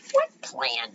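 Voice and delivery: gently sweet, innocent question; sweetly. A narrator's reading. Carrie asking the boys about their plan, sweetly. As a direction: ask it with a touch of sweetness. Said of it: "Carrie asked sweetly".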